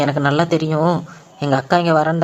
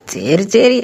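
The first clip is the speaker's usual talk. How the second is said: higher, excited plotting; villain gloating to himself about the marriage; gleeful scheming; 5 semitones higher than usual. Acted. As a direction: rise with glee as the plan falls into place. Schemer gloating over his plan.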